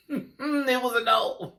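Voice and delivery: slow, high laughing verdict. Real, not acted. Vlogger turning down Veronica Green's outfit, laughing. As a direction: let the laugh spill into the words.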